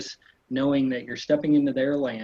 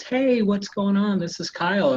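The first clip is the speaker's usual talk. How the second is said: upbeat high greeting; 7 semitones higher, 5 dB louder than usual. Shown as a demonstration. Realtor matching an upbeat prospect's energy, high and cheerful. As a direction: sound as bright and lively as they do. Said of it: "match the tone".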